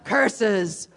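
low, slow villain growl of defeat. Acted. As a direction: grumble like a foiled stage villain. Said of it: "So here we go".

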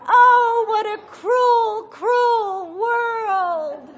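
high, loud, slow crying witch wail. Retold or imitated. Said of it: "what the witch said".

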